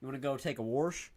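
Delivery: quoting someone with "warsh", R before the sh; "warsh" said like "worsh", questioning lift; imitated regional pronunciation. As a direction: mimic the intrusive R in "warsh". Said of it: "If you're saying".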